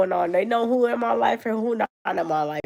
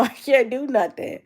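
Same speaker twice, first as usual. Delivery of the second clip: laughing; 3 semitones higher, 3 dB louder than usual. Real, not acted. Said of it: "I'm laughing because".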